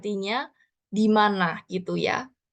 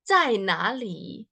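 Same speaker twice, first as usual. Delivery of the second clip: slow demo; much slower than usual. Shown as a demonstration.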